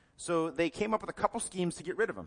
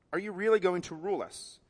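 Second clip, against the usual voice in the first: louder mocking disbelief; 4 semitones higher than usual. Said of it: "His brothers asked".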